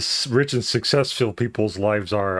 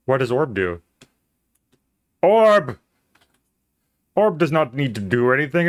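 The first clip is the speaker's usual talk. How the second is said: mock zealot; 5 semitones higher, 4 dB louder than usual. Mock cult worship of orb.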